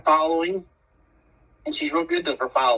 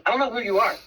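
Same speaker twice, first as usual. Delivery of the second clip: lightly voiced puzzled friend, higher; a hint of a bewildered buddy, pitched up; confused buddy; 9 semitones higher than usual. Buddy Doug confronts Charlie, retold.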